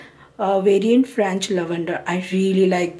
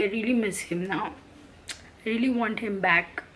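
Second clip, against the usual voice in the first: quietly crying; 6 dB quieter than usual. Real, not acted. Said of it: "I am crying".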